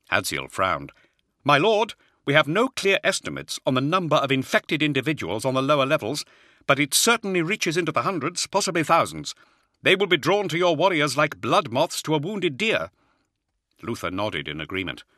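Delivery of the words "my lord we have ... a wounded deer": high-pitched officer pleading caution; anxious objection in a raised voice; worried colonel. Acted. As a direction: voice a colonel urgently warning his lord.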